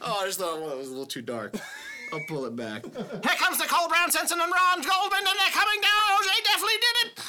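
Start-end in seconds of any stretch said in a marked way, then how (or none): 2.8-7.2 race caller. Pretend. Mock race call.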